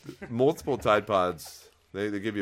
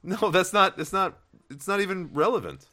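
higher-pitched, emphatic rebuttal; indignant objection; 10 semitones higher, 4 dB louder than usual. Real, not acted. Host shoots down co-host's historical data argument, indignant. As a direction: push back hard, pitch jumping up.

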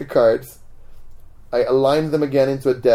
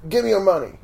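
higher-pitched mock mugger's shout; retold mugger's demand; 6 semitones higher, faster than usual. Gang member to lone subway rider, mock demanding shout. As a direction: demand it like a mugger, not full volume. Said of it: "they started shouting something".

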